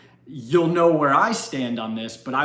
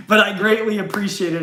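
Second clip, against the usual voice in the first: laughing; 5 semitones higher, 3 dB louder, faster than usual. Real, not acted. Laughing thanks after the joke.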